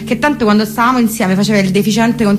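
put-on chattering Parioli girl on the phone; posh Roman girl. Flami complaining to her friend about the ex downstairs, lightly voiced posh girl. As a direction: gossip breathlessly to a friend.

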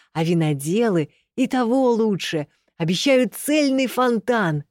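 gushing, rising to eager shouts; a servant thrilled by free drink; excited servant. Acted. Servant gushing about free wine.

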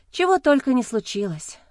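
ordinary delivery, nothing marked

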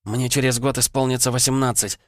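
put-on the girl begging not to be interrupted; urgent girl's voice. A narrator's reading. Vanda's voice.

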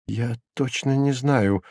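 soft, mildly animated reply; lively answer. A narrator's reading. Prisoner answering the procurator, mildly lively. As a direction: answer readily, with a light touch. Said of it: "живо ответил арестованный".

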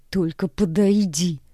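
slow menacing threat; hissing threat. Acted. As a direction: hiss like a snake. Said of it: "шиплю, словно змея".

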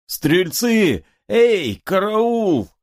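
high, desperate cry for the guards; shouting for help. Acted. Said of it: "Из снегу кричит поп". (поп из снега зовёт стрельцов на помощь, истошно кричит)

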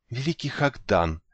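languid breathy whisper; soft sultry breathy purr; breathy hollywood starlet. A narrator's reading. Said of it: "томно прошептала девочка".

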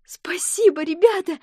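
whispered, happy thanks; breathy grateful whisper to friends; glad whisper. A narrator's reading. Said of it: "Алиса поняла и обрадовалась". (радостный шёпот)

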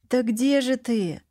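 plain reading voice

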